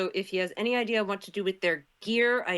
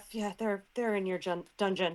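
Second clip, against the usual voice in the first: mumbled aside under breath, quieter; 4 dB quieter than usual. Answering the old man at the desk, muttering under breath. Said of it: "under my breath".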